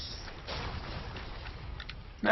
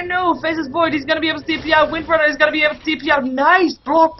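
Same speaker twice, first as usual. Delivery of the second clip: higher, urgent commentary; keyed-up esports casting; excited escape call; 4 semitones higher, 4 dB louder than usual. Real, not acted. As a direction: rush through the escape as it happens.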